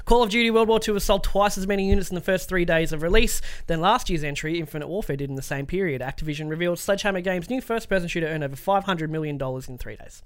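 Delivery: scripted games-news read. Acted. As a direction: read the story out like a presenter. Reads out a news story.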